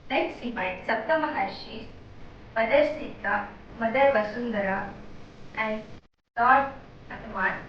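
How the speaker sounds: calm, measured meditation guidance; unhurried meditation leader's voice; guided meditation. Real, not acted. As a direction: gently lead them through meditation with long pauses.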